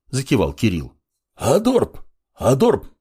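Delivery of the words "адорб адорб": feral barking growl, pitched high; bugbear. A narrator's reading. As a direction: bark it out like a wild beast. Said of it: "рыкнул в ответ одичавший автор".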